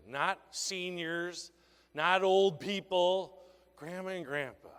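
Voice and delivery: slow, each phrase set apart; slow emphatic contrast. Shown as a demonstration. Sales trainer stressing the exact words to use. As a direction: spell out the contrast word by word. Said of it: "You walk up to every grandma and grandpa".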